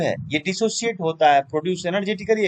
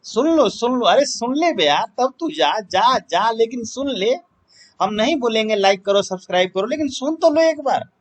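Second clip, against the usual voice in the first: higher, insistent coaxing; playful pleading; 4 semitones higher than usual. Pretend. Teacher coaxing students to hear a verse, playful pleading. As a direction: plead for one listen, rising to a high final appeal.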